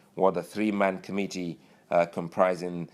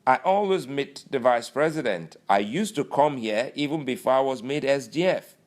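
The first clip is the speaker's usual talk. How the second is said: boastful Lawal; 6 semitones higher, 4 dB louder than usual. Retold or imitated. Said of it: "And he goes".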